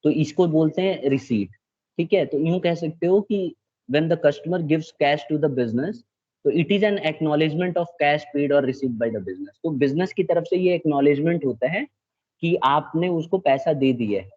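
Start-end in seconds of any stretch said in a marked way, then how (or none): 3.9-9.6 slow dictation. Acted. Teacher dictating definition again.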